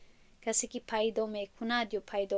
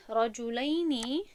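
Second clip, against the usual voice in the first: drawn-out key word; much slower than usual. Shown as a demonstration. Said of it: "این مثنای کلمه رجلون هست".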